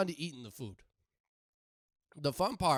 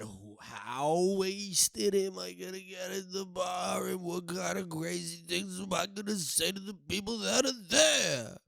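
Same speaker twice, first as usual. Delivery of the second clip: excited; 2 semitones higher than usual. Acted. Hyped excitement about restaurant shifts.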